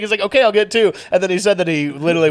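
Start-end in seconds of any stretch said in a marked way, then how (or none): 0.2-0.9 imitated flustered giving-in, higher and louder; panicked. Bullied customer agrees to get two, panicked. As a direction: cave in hastily, mock panic.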